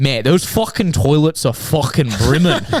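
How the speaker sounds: put-on Liverpool Scouse accent. Retelling a man coming out of the toilets, in a Scouser accent. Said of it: "in this like Scouser accent just goes".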